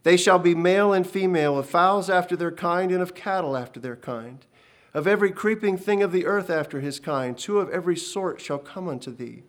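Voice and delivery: loud, solemn divine command; a commanding heavenly voice; voice of God. Acted. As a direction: pronounce the covenant with weight. God's voice giving the covenant.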